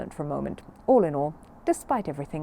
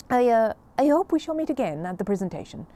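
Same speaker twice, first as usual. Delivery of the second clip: stiff headmistress; 5 semitones higher, 5 dB louder than usual. Acted. Headmistress voiced, doubtful.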